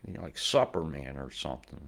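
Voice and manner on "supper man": Supper Man said as supper with a short u; childhood mispronunciation. Retold or imitated. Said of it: "the Walter Miss Spallings".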